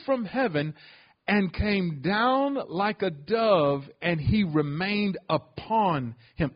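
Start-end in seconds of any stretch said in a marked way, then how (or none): 4.0-6.5 "upon" leaned on as the key word; stress on upon. Shown as a demonstration. Pastor stressing "upon" to the congregation. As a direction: land firmly on "upon". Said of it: "Emphasis on the word upon".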